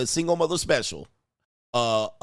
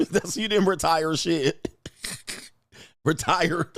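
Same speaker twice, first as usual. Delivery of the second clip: laughing; 4 semitones higher than usual. Real, not acted. Laughs at her retirement claim.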